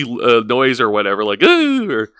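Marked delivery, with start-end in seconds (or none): 1.4-1.9 goofy ooh. Retold or imitated. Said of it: "goofy noise".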